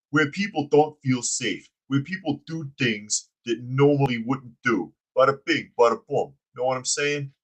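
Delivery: mock the mayor as a goofy mob henchman; dumb henchman voice. Host reading the mayor's ice quote in henchman voice. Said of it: "You make him sound like a dumb henchman".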